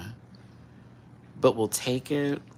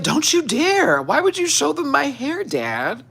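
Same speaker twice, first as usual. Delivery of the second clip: indignant cat voice; 7 dB louder than usual. Retold or imitated. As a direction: play the cat scolding her dad for showing her hair. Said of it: "She's like".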